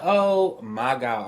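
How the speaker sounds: drawn-out, incredulous groan of words; exasperated disbelief. Retold or imitated. Fed-up lover reacting to a paranoid partner, exasperated. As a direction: stretch it out slowly in mock disbelief.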